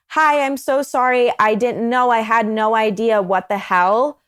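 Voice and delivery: hint of a flustered other girl; different person. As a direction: play her as suddenly sorry and innocent. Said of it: "sounds like a completely different person".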